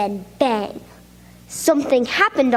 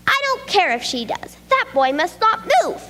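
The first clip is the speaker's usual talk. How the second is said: snapping cat; 6 semitones higher than usual. Acted. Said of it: "the other cat snapped".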